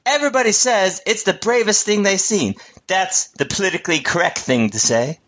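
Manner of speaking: a rough, half-remembered impersonation; Steve Harvey. Acted. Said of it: "That was my Steve Harvey impression".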